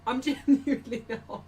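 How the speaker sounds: denial breaking up into real giggles; laughing. Real, not acted. Streamer denying mocking Arsenal fans to Ellen, cracking up. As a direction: try to insist, but crack up mid-sentence. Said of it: "I'm just laughing at what you said".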